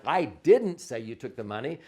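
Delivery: didn't punched, end rising; stress on didn't. Shown as a demonstration. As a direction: lean on didn't, let the end rise. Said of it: "emphasize each one of the words differently".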